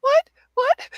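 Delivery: lightly hammed-up bewilderment; mock confusion. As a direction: ape the nurse's baffled look. Imitating confused nurse.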